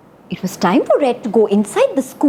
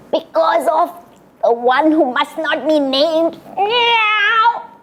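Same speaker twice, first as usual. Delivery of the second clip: scared cat; 5 semitones higher, slower than usual. Shown as a demonstration. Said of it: "Can you do that?".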